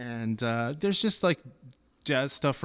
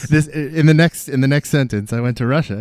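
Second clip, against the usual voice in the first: dramatic announcement; 11 dB louder than usual. Pretend. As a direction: announce it like big news. Guest mock-dramatic announcement.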